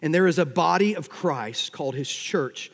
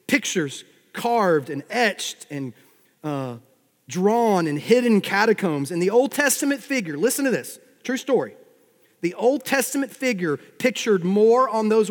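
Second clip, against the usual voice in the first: raised, higher preacher's voice; emphatic preaching; 4 semitones higher, 5 dB louder than usual. Acted. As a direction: build suspense toward a big reveal. Preacher builds to a reveal.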